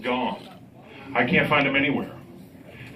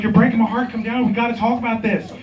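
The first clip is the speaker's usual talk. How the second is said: higher, louder mock pleading; acted quarrel; 7 semitones higher, 3 dB louder than usual. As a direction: act out a heartbroken plea, voice raised.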